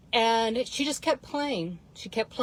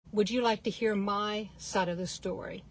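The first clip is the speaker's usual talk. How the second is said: softer, steady sincere question; unflustered and calm; 4 dB quieter than usual. Retold or imitated. Mom disarming the rude man in the elevator, soft and calm. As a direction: keep it calm and unbothered. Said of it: "wasn't all flustered".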